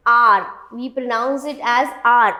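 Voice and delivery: "R" as one long "ar"; common mispronunciation demo. Shown as a demonstration. Teacher quoting what is commonly heard, common mispronunciation demo. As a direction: say the word hour as the letter "R". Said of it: "But no, the right pronunciation".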